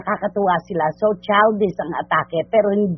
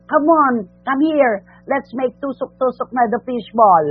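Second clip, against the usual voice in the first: a hint of a cooing movie star; Sharon Cuneta impression; 4 semitones higher than usual. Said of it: "Yun, kay Sharon yun".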